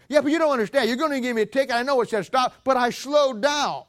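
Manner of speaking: acted-out whiny excuse to a cop; protesting driver. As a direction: argue back like an indignant driver. Driver arguing with the state trooper.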